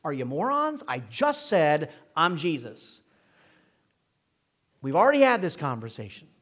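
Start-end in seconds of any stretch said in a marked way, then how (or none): 0.0-3.0 sarcastic Jesus. Retold or imitated. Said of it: "I read a little sarcasm in that".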